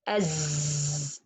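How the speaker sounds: "Az" with a long z like a bee; buzzing Z. Shown as a demonstration. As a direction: hold a low buzz on the z of "Az". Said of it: "B sound".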